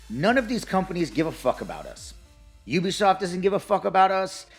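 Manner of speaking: heated ranting list; fired-up rant, punching each company; raging gamer. Real, not acted. Building rant listing companies.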